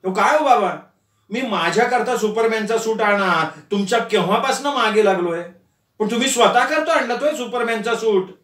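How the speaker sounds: whiny complaint; a son's high, wheedling grievance; complaining tone. Acted. Son complains to his father, whining. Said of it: "Nitin तक्रारीच्या सुरात म्हटला".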